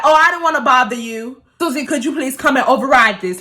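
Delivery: retold pointedly polite request. Cashier bypassing Billy to ask Susie, pointedly polite. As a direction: ask politely, making a point of snubbing someone. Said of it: "with that type of tone".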